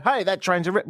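put-on American accent. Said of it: "Why am I doing an American accent".

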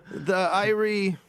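slow, tentative stab at Jamaican; attempted Jamaican accent. Colleague roped into reading the plug, tentative Jamaican accent. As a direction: try a Jamaican accent, unsure. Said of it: "you don't have to do it in Jamaican".

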